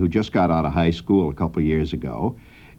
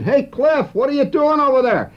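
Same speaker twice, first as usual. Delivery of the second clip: calling out. Retold or imitated. Calling out across yard.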